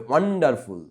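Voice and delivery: first syllable ওয়ান of ওয়ান্ডারফুল held and stressed; stress on WON. Shown as a demonstration. Teacher shows pupils ওয়ান্ডারফুল with stress on ওয়ান. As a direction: lean on ওয়ান in ওয়ান্ডারফুল, falling away after. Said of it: "জোর দিয়ে পড়তে হবে".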